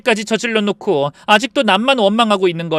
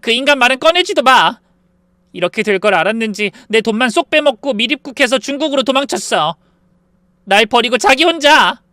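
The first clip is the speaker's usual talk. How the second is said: wailing sobbing; 7 semitones higher, 7 dB louder than usual. A narrator's reading. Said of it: "더 서럽게 울며".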